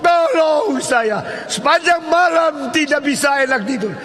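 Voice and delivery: high, loud begging yell from the pit; pleading shout. Retold or imitated. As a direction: plead to be heard above. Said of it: "Lalu dia mulai berteriak".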